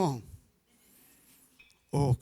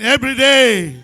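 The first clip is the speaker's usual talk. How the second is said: louder call and response; 13 dB louder, slower than usual. Shown as a demonstration. Pastor urging the congregation to repeat it louder. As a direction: really belt "Every day" so all join. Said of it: "Say it with me again".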